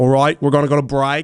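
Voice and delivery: bad Birmingham accent attempt. Showing off accents on command, the host tries a Birmingham accent.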